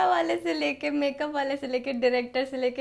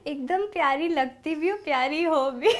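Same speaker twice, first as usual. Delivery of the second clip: sweet compliment. Shown as a demonstration. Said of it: "फिर कुछ लोग अच्छे भी होते हैं।".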